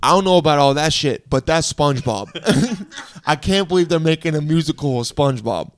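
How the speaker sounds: lightly voiced, emphatic guy; overheard guy. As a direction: imitate an amused, opinionated man. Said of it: "then the guy goes".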